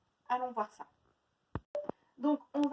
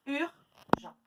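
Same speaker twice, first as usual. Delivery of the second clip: slow, syllable by syllable; syllables tapped out; 4 semitones higher than usual. Shown as a demonstration. Teacher to pupils, slowly tapping out syllables. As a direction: clap out each syllable slowly. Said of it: "tapez dans les mains".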